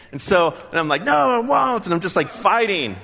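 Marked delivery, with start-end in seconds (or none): 1.0-1.8 high, loud mock refusal; stubborn refusal. Preacher acts out refusing his conscience, loud and high. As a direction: dig in and say no.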